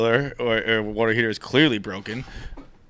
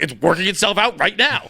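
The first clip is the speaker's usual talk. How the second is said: higher-pitched comic insistence; mock defiance; 5 semitones higher than usual. Tenant answers the super back, mock defiant.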